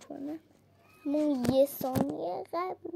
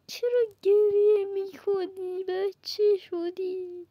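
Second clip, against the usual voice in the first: louder, slow mock-scolding tease; teasing; 4 semitones higher, 4 dB louder, slower than usual. Real, not acted. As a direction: drag out the crybaby jab. Teasing crying character.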